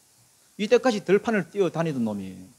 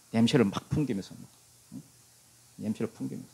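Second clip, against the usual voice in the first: ordinary talk, nothing marked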